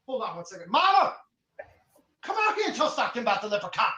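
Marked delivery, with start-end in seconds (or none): 0.7-3.5 loud call to mom. Acted. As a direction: yell for mama across the house. Calling mom outside.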